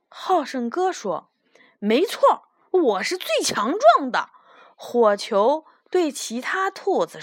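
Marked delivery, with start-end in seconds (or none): 1.8-4.3 higher-pitched, pleased self-praise; proud boast. Acted. Strongest little rabbit agreeing with praise, proud boast. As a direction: agree eagerly and show off. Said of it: "他突然觉得好得意".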